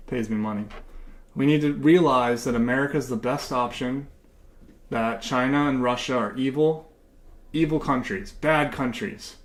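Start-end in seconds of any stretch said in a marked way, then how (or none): 1.3-9.4 mock patriotic pandering. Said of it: "I'm gonna keep talking like this".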